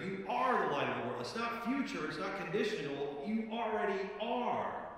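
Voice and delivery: excited colleague. Retold or imitated. Pastor imitating Tim's excitement about the verse, eager. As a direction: retell how Tim burst in with his discovery. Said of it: "he was so excited about it".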